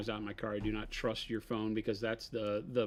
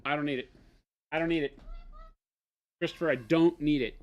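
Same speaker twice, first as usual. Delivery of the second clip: building insistence; 3 semitones higher, 3 dB louder than usual. Pretend. Mock quarrel with Christopher.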